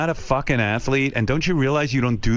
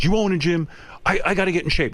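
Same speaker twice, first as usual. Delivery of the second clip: mildly worked-up friend, pitched higher; angry retelling; 4 semitones higher than usual. Retold or imitated. Friend insisting to a gym owner, mildly angry. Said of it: "he's angry".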